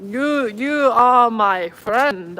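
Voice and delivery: very slow, carefully spaced broken English; slow mock confession. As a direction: stretch each word out like an earnest stranger. Japanese guy confessing to friend.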